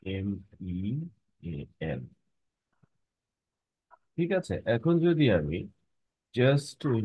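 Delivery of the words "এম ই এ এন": each letter said separately with pauses; spelling out letters. Shown as a demonstration. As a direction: spell মিন as এম, ই, এ, এন. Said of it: "বলা হয় মিন".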